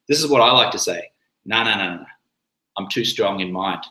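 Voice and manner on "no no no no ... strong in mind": cheeky, amused refusal; with a little grin. Shown as a demonstration. Brushing off pressure to drink, cheeky grin. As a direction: say it with a smirk. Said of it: "do it with a little grin".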